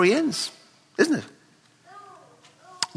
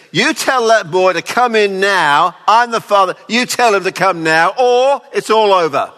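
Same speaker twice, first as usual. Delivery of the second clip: stern commanding father; 3 semitones higher, 5 dB louder than usual. Pretend. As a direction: order the boy home like an offended patriarch. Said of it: "He didn't send a servant, say".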